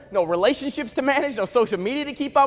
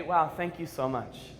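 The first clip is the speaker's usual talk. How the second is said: grateful newborn; 9 semitones lower, 9 dB quieter than usual. Retold or imitated. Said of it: "you'd look up at your mom and say".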